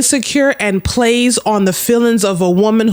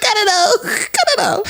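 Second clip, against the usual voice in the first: high, laughing, half-crying I don't know; nervous laugh through the words; laughing panic; 13 semitones higher than usual. Real, not acted. Answering her friend, laughing in panicked disbelief.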